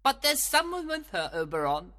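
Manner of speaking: high, gleeful sprite; tickled, high-pitched tease; holding back laughter. Acted. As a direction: barely keep a giggle in. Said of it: "trying hard not to laugh".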